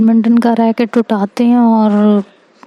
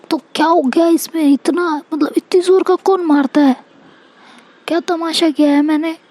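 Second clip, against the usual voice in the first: defensive retort; 5 semitones higher than usual. Retold or imitated. Answering her bhabhi's questions about the slap, defensive higher-pitched retort. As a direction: act out a defensive comeback in a higher voice. Retold defensive argument with sister-in-law.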